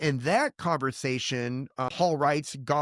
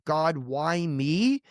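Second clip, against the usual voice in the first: mock whining complaint; much slower than usual. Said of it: "complaining about".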